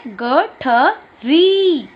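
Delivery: very slow, stretched teacher model; drawn-out demo word. Shown as a demonstration. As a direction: stretch every sound for the class. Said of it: "पहला चित्र किसका बना है?". (धीरे-धीरे खींचकर बोला गया शब्द)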